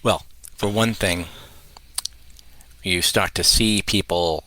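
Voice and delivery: measured answer with long pauses; lightly put-on public-radio calm; NPR voice. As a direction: take your time, like a composed radio guest. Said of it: "It's a very measured tone".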